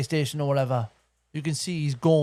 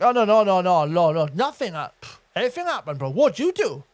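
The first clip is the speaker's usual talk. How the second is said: louder, impatient no-no-no brushing it off; exasperated; 4 dB louder than usual. Retold or imitated. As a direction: press him, fed up. Exasperated questioner pressing the kid.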